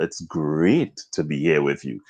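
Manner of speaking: "great" intoned as the bright point of the phrase; stress on "great". Shown as a demonstration. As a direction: lean on the word "great" to lift it. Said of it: "It's an emphasis I'm putting on something".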